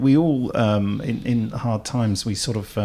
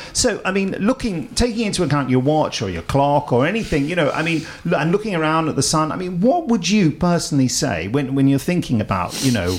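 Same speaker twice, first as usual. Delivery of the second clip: higher, rambling mock interviewer, never reaching the question; lightly voiced breakfast TV host who waffles on; a hint of a long-winded presenter dragging out a simple question; Charlie Stayt impression; 4 semitones higher than usual. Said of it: "he'd say".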